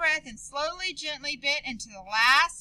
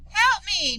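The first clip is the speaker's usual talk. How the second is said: urgent cry for help, higher and louder; 6 semitones higher, 5 dB louder than usual. Acted. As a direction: plead loudly for help. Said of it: "Maria cried".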